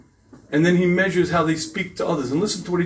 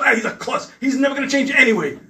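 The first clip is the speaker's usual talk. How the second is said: resigned wife; 8 semitones higher than usual. Retold or imitated. Wife giving up on husband.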